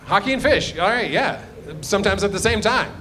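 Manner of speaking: playful Upper Midwest accent imitation; Minnesotan-Dakotan accent. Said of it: "Same accent".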